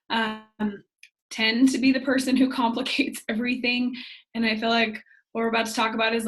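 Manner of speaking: hoarse, barely-there voice; lost voice. Real, not acted. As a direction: talk through a lost voice. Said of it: "and I have no voice".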